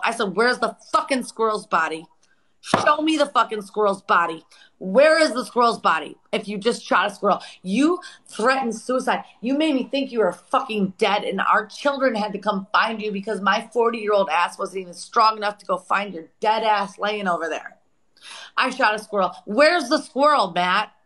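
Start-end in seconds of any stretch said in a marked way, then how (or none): 0.4-17.8 retold angry tirade. Re-enacted tirade at Matt. 18.6-20.9 high-pitched scornful challenge in a retold argument; mocking retort. Mocks his excuse, demands proof.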